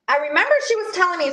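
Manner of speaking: talking with a seed in mouth; words around something in the mouth; mouth full. Real, not acted. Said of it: "sorry, I got, like, some, some seed in my mouth".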